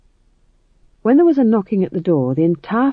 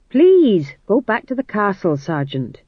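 exasperated plea; 3 semitones higher, 4 dB louder, slower than usual. Acted. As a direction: beg him firmly to finally leave. King repeats, exasperated.

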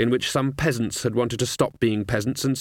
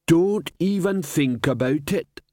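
level troll voice; 4 semitones higher, slower than usual. Acted.

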